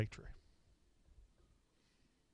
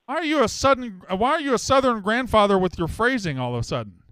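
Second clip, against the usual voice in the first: incredulous; 7 semitones higher, 5 dB louder than usual. Real, not acted. Host baffled by caller's voice.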